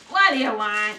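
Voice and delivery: gruff grating voice from a speaker box; raspy metallic voice. Acted. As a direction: rasp it like a rusty machine. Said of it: "a raspy metallic voice".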